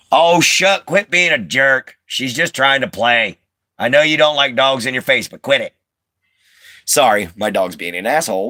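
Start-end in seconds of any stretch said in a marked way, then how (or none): 0.1-5.7 real pet scolding, pitched up; scolding the dog. Real, not acted. Owner telling dog to quit being a jerk, scolding. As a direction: tell off a misbehaving dog.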